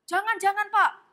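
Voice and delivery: hammed-up graveside restraint; mock pleading. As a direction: plead with a widower to let go. Mourners restraining grieving widower.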